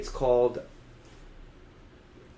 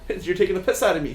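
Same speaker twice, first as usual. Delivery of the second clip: higher, louder mock protest; hammed-up retort, pitched up and louder; imitating indignant caller; 6 semitones higher, 5 dB louder than usual. Imitating a caller disputing the fall claim, higher mock protest. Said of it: "he says, right?".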